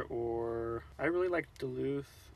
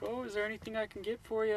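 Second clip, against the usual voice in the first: polite cashier voice; 11 semitones higher, faster than usual. Retold or imitated. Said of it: "She's like".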